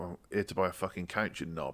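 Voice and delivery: put-on aggressive voice. Retelling how some customers answer a store greeting: imitating an aggressive customer. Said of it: "Slightly less aggressive people will be like".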